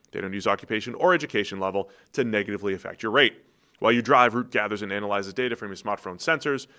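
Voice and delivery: brisk, punchy host-read commercial; scripted announcer pitch with lifted phrase openings; sponsor ad read. Acted. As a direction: sell it like a podcast sponsor spot. Reads the sponsor ad.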